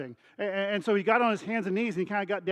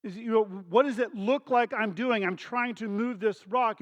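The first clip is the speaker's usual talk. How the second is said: mock exasperated outburst, slightly raised; emphatic, lightly acted annoyance; frustrated and mad; 3 semitones higher than usual. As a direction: imitate a son fed up with explaining. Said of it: "he just gets frustrated and mad".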